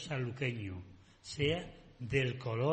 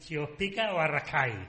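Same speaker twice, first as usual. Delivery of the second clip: ironic; 5 dB louder than usual. Real, not acted. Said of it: "Ironía".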